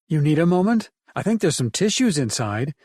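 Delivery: mock sympathy with a teasing lilt; teasing mirth. Emily ribbing Ted over his lost rifles, mock sympathetic. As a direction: tease him with pretend concern. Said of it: "the mirth in her voice".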